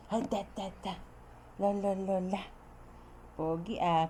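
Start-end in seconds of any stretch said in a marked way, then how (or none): 0.1-2.4 put-on babble for the baby to copy. Shown as a demonstration. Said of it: "you say".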